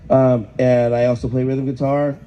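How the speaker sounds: rough, worn-out voice; hoarse voice. Real, not acted. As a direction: speak through a lost voice. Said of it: "As you can hear, my voice is gone".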